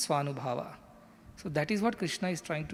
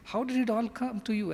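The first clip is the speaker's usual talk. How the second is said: higher-pitched reproachful question; mock stern scolding; 6 semitones higher, faster than usual. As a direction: demand an explanation, pitch raised. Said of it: "straight away scolds him".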